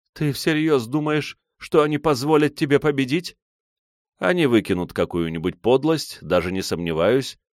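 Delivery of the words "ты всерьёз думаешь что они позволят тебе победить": scornful doubt. A narrator's reading. Silva scornful question.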